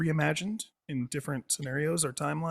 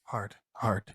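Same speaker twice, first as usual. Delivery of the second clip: low suggestive voice; 7 semitones lower, 4 dB quieter, slower than usual. Pretend. Joking on the word hard.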